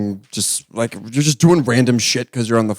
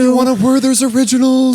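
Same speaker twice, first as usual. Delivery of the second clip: condescending elder talk; 11 semitones higher, 3 dB louder than usual. Retold or imitated. Mocking talking down to elders.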